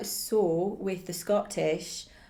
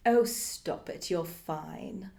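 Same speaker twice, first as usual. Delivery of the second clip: patronizing; much slower than usual. Acted. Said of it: "she was very patronizing".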